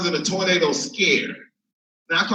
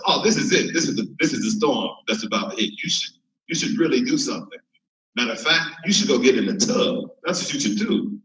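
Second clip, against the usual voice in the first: lightly voiced calm friend, even and steady; 6 semitones lower than usual. Friend on the phone calmly tells him to hide in the tub. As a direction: give the advice like it's nothing. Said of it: "with a calm voice".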